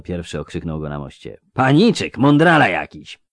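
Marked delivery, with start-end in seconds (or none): 1.5-3.2 hoarse mocking thug; raspy. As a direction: rasp it out, high and jeering.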